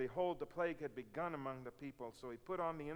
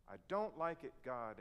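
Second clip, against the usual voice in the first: pouting tantrum. Retold or imitated. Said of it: "like the two-year-old who stamps his feet and pouts".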